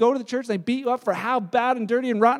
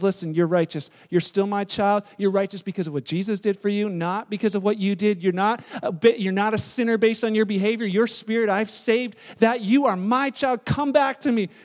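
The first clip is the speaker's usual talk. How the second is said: tender reassurance; 2 semitones lower than usual. Retold or imitated. Holy Spirit voiced comforting believer.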